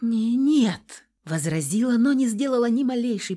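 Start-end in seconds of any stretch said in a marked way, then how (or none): 0.0-1.1 weak protest. A narrator's reading.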